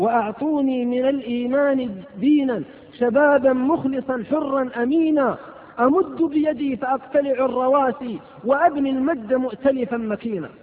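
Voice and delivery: a preacher breaking into stirring poetry; poem recitation. Acted. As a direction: recite the verse with rising fervour. Recites a poem mid-sermon.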